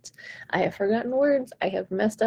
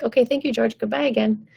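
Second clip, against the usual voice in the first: brisk dismissal; 3 semitones higher than usual. Acted. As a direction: wave George off cheerfully. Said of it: "you're gonna be like".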